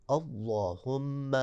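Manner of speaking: اللہم with a full heavy لّ, very slow; slow tajweed demo of اللہم; heavy Allah. Shown as a demonstration. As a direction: draw out اللہم with a thick lam. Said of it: "اللہ کو موٹا پڑھنا ہے".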